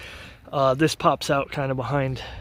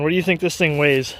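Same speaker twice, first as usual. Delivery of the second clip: repeated louder; 3 dB louder than usual. Shown as a demonstration. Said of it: "I'll say it again".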